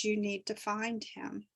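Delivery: gentle whisper. Retold or imitated. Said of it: "whispering in my ear rather loudly, very gently, very sweetly".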